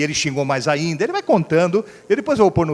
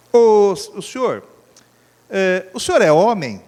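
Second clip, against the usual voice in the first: slow probing question; 4 semitones higher, 4 dB louder, slower than usual. Retold or imitated. Little man asks slowly.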